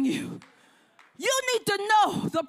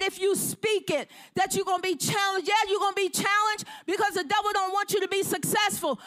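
fired-up preaching. Acted. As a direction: drive it home like a pulpit call. Preacher urging with authority.

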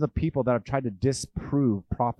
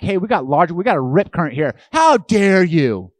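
lifeguard calling out; 6 semitones higher, 9 dB louder than usual. Retold or imitated. Lifeguard warns swimmers with a loud call-out. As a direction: shout a warning across the beach. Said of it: "I'm like".

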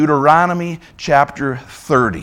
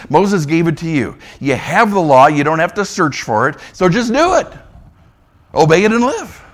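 preaching force; 3 dB louder than usual. Acted. Preacher's forceful high point.

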